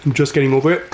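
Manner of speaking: raspy, just over a cold; hoarse voice after a cold. Real, not acted. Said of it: "So my voice sounds raspy".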